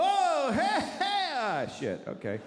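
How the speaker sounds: mock bubble crowd. Crowd watching big bubble.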